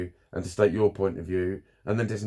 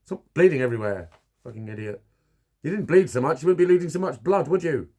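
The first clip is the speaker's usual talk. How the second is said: loud, higher mock telling-off ending on a big "Duh"; sarcastic scolding; 5 semitones higher, 5 dB louder than usual. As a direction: ridicule the advice by scolding.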